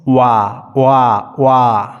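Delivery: "ওয়া" repeated as a drawn-out "waa"; correct waa sound. Shown as a demonstration. Teacher drills students on the right sound, long "ওয়া" as "waa". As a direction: open each "ওয়া" wide from rounded lips, "waa". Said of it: "ঠিক এরকম একটা উচ্চারণ হবে".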